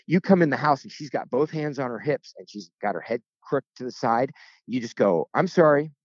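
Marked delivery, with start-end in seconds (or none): 5.3-5.9 higher, pleading husband's apology; mock pleading apology. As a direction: apologize helplessly to an upset wife.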